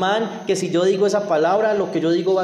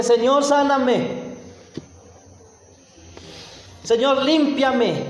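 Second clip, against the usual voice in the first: exigencia alta y lenta, casi ordenando a Dios; exígelo alto y despacio, como una orden; demanda exigente; 6 semitones higher, slower than usual. Retold or imitated. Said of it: "él no dice". (el leproso exigiendo sanidad en voz alta y lenta)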